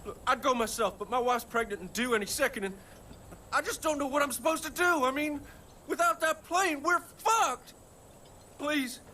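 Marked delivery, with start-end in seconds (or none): 3.5-9.0 getting emotional. Acted. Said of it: "I don't like getting emotional".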